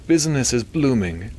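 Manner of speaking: nasal doctor with understated disinterest; Milton. A narrator's reading. Doctor reporting on his alligator farm, nasally and disinterested. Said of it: "despite the disinterest in his voice".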